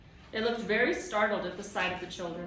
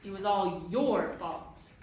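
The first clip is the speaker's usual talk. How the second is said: loud, higher, indignant shouting; yelling back; 8 semitones higher, 5 dB louder than usual. A narrator's reading. Tom yelling at the towering Proc, furious. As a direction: hurl the questions up at him. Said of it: "he yelled at the towering Proc".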